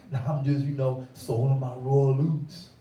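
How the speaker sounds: mimicking a youth sowing wild oats; ignorant youth voice. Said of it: "And that's how you sound".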